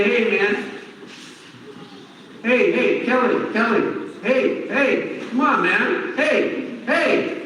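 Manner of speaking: nudging someone who won't listen; calling for attention. Retold or imitated. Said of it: "tapping me on the shoulder and say".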